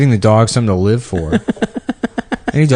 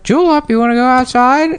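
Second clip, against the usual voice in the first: much higher squawky parrot imitation; parrot mimicking owner. Spiteful parrot mimicking the owner to set off the dog. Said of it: "hear the parrot go".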